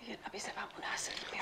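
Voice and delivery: very soft whisper. Acted. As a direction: hush the friendly wish. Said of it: "Tak proč vlastně šeptáme?".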